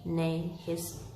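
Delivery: story narration. A narrator's reading. Reads Dickens chapter aloud.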